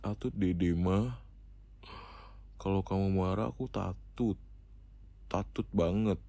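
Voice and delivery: put-on lightly babyish, lisped pout; baby talk. Boyfriend scared of his angry girlfriend, mild baby talk. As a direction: play a timid little child with soft baby consonants. Baby words, calls himself Dede.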